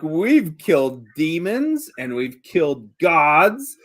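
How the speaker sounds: slow, deliberate listing of feats; mildly self-important, drawn-out delivery; slow boasting. Acted. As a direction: spell out each feat slowly. Kylon boasts of party's deeds.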